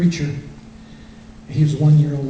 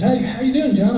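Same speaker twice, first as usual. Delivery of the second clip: imitating pastor; 9 semitones higher than usual. Pastor greets him.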